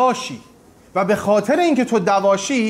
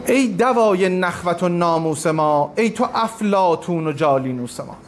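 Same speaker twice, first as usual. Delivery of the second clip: poem recitation; 2 semitones lower than usual. Acted. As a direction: draw out each line like a recited poem. Recites Rumi verse.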